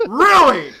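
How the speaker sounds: sarcastic gasp of disbelief; mock disbelief. Viewer mocking the scene, mock disbelief.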